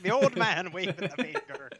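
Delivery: mock Scottish accent, half-laughing. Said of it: "like, a Scottish accent".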